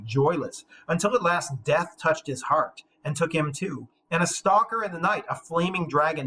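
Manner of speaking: ominous storytelling read; epic narration. A narrator's reading. Teacher narrating the dragon's arrival, solemn read. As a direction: build the dragon's menace steadily. Reads narration after monologue.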